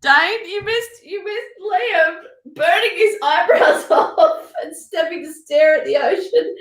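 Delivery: words breaking into laughter; can barely get it out; laughing recap. Real, not acted. Recapping for Dane, breaking into laughter.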